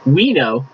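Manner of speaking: mild emphasis on "we"; emphatic we. Shown as a demonstration. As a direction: stress on "we" in "we know", leaning into "we". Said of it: "is emphatic".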